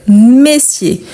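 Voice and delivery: "messier" opening on "meh"; open vowel. Shown as a demonstration. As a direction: open first vowel in "messier", clearly modelled. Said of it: "les sons ouverts".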